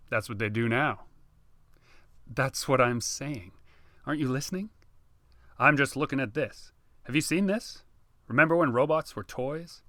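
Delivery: put-on animated older brother; mildly excited brother. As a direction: show him the news, keen. Brother excited about robots.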